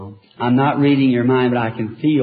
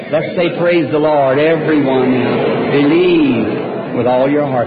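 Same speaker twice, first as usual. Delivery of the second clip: raised voice urging the crowd to praise; loud rallying call; 5 dB louder than usual. Real, not acted. Preacher urging the congregation, loud fervent call. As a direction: call out to the whole hall with fervour.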